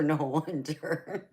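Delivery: slow words through laughter; laughing. Real, not acted. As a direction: let the laugh stretch the words out. Laughs at teenager story.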